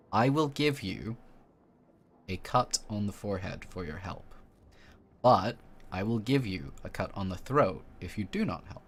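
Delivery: mischievous cultist. Acted. Cultist woman bargaining with the vessel, lightly mischievous. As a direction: bargain with a playful menace.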